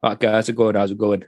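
low-pitched, half-hearted Brummie impression; attempted Brummie accent. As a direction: have a poor go at a Brummie greeting. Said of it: "I can't do a Brummie accent".

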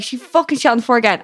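mildly exasperated mock complaint; mad housemate. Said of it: "my housemate would be so mad".

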